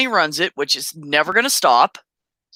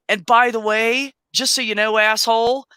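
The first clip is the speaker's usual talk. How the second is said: a raised, cheeky jab at the thief; sassy parting shot; 5 semitones higher than usual. Retold or imitated. Retelling the parting shot to the shoplifter, cheeky and raised. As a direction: toss a snarky last word over your shoulder. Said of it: "I said to him".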